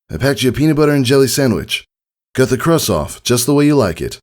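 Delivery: a dad proudly fussing over lunch; lightly voiced caring dad. A narrator's reading. Father telling his daughter about her packed lunch, lightly voiced and fond.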